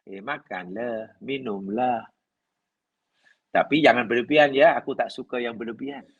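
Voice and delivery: easy, kindly invitation, no pressure at all; gentle, easygoing. Shown as a demonstration. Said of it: "sangat bersahaja".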